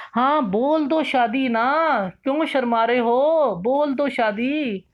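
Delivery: coaxing a shy student, slow and teasing. Real, not acted. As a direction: tease him gently into saying marriage.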